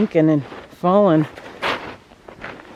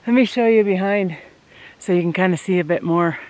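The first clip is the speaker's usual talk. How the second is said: panting between words at altitude; winded from climbing uphill; out of breath. Real, not acted. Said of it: "I'm breathing hard".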